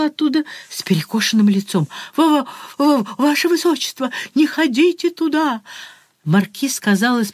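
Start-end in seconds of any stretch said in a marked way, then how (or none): 2.2-5.6 stammering, higher panicked warning; frightened stammer. Acted. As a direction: stutter in terror, higher in pitch. Terrified marquis stammers a warning.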